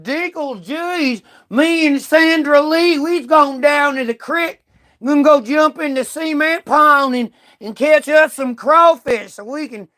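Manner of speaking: a lightly put-on Southern hick voice; a hint of a hillbilly talking about the creek; mock redneck. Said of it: "they don't talk like that".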